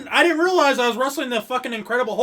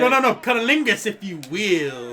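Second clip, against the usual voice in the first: Dusty Rhodes voice; 4 semitones lower than usual. Pretend. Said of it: "I wanna hear Dusty Rhodes say cunnilingus".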